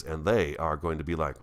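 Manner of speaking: usual speaking voice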